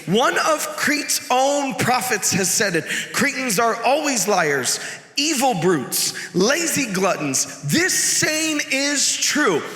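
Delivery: mildly heated, emphatic reading, stretched on key words; understated fury, deliberate and forceful; furious letter reading. Acted. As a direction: read it as an urgent, indignant letter. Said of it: "furiously scribbling out".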